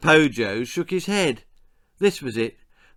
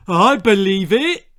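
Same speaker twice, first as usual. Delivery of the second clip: high, loud piping voice; piped up; 7 semitones higher, 9 dB louder than usual. A narrator's reading. Mister Cluck pipes up to back the messenger. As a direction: chirp it up eagerly. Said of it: "piped up Mister Cluck".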